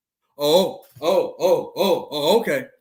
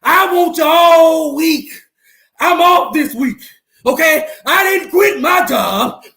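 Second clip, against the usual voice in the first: taunting shout; 3 dB louder than usual. Real, not acted. Taunting rival fans loudly.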